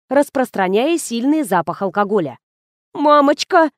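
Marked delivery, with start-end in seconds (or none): 2.9-3.7 higher, louder shocked cry; woman gasps at news of a death; gasping exclamation. A narrator's reading. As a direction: gasp it out in shock. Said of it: "ахнула Полина".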